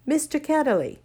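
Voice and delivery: blurting the name as memory returns; girl shouting the name in recognition. A narrator's reading. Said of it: "she shouted out".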